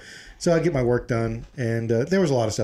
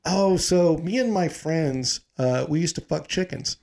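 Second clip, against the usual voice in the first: put-on slow, thick Cuban accent; 4 semitones higher, slower than usual. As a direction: drawl it in a heavy Cuban accent. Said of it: "very thick Cuban accent".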